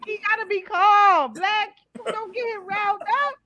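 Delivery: mock pleading, pitched a little up; playful scolding. Real, not acted. Host begging friends not to rile him, playful scolding. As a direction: plead in mock dismay for calm.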